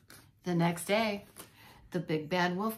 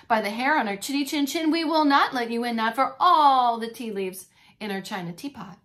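loud, defiant refusal; loud defiance; 7 dB louder than usual. Acted. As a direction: stand firm, say it loud. Wolves defiantly refuse the pig.

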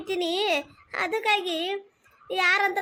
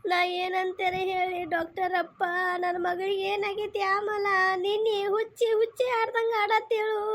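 mock weeping plea. Mother begs doctor, weeping.

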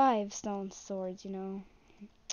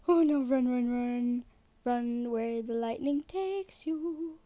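mock alarm; slower than usual. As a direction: play at fleeing, stretching out the last words. Silly acted cry to flee, sing-song.

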